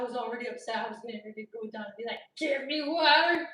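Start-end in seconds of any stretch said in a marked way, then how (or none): 2.4-3.5 slow, loud, cracking with laughter; laugh-crying demand. Retold or imitated. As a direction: plead for water, laughing near tears.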